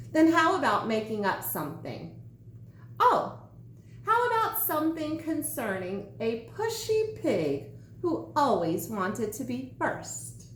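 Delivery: hint slyly at the pushy pig; sly sandwich. Acted. Sandwich suggests a story.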